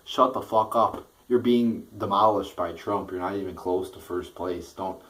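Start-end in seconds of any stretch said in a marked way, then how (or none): 0.0-3.1 louder, fed-up outburst; louder angry snap; angry rant. Real, not acted. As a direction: bark it at them in disgust. Ranting at losing candidates.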